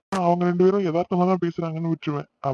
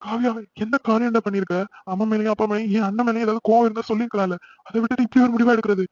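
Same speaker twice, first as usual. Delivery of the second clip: distressed pleading; 5 semitones higher than usual. Acted. Distressed brother pleads with sister.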